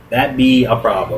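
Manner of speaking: normal talking voice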